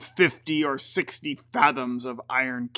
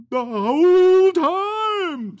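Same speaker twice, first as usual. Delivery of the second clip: high, loud, slow ghostly moan; unearthly voice; 8 dB louder, much slower than usual. Acted. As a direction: drag it out like a ghost. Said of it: "said the ghost".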